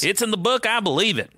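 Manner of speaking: put-on high, twangy country accent preacher. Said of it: "Why are we doing country accents?".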